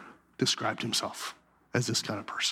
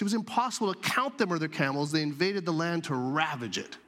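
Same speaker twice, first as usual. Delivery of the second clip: scripture reading; 4 semitones higher than usual. Acted. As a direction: read the passage like holy text. Reads scripture aloud.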